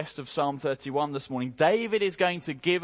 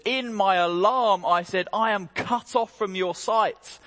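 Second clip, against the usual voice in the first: a hint of alarm, louder and higher, read as David; desperate plea; 3 semitones higher, 3 dB louder than usual. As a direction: voice David's panic with restraint. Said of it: "hear the desperation in his voice".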